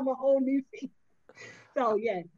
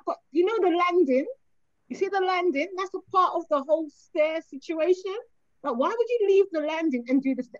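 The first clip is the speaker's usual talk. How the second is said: mock clueless son; 5 semitones higher, 3 dB louder than usual. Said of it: "Then I'll be like".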